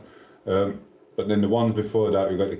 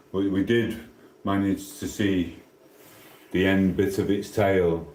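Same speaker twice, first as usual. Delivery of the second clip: imitated suspense narrator with long pauses; TV presenter imitation. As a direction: draw out the endings like a fishing-show host. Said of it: "He gets to end and he goes".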